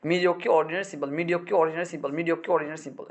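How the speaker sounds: rote recitation of a word list; like drilling vocabulary at morning study; memorization drill. Shown as a demonstration. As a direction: recite it in a steady repeating loop. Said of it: "তখন কীভাবে পড়বা?".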